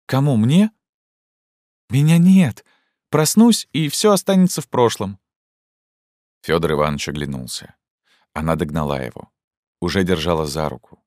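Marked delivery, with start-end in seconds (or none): 0.1-5.2 much higher and louder, rushing, ecstatic; impassioned plea. Acted. Zhenya begs Fyodor Ivanovich, feverish and high. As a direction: pour it all out in a feverish rush.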